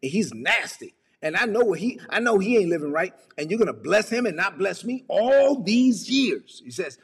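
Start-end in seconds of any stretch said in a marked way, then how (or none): 1.2-6.6 high-pitched aggrieved protest; acted wounded outrage; self-righteous religious complaint. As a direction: object indignantly, dragging out the grievance. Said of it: "this is how some religious people are".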